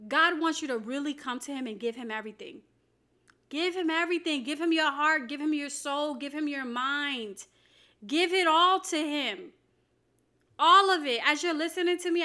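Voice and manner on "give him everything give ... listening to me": raised, measured exhortation in short punched phrases; emphatic preaching. Real, not acted. Preacher urging viewers to give God everything, emphatic preaching. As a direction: urge them on, phrase after phrase.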